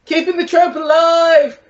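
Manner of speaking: hammed-up Blackpool accent, high and drawn out. Shown as a demonstration. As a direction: put on a loud, slow Blackpool accent. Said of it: "here's my Blackpool accent".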